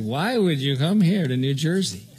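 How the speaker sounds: mild mock sarcasm on would; lightly sneering disbelief; a hint of sarcastic neighbours asking why he came. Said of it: "everybody said it with this sarcastic".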